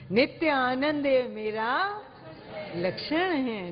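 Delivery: gentle, heartfelt, savoured; felt delivery. Shown as a demonstration. Teacher models saying it with inner joy. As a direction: show the bliss as you say it. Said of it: "आप ऐसे बोलिए नित्य आनंद को दिखाते हुए".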